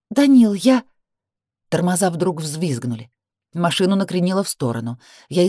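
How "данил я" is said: pleading cry. A narrator's reading. Sister pleads, interrupted.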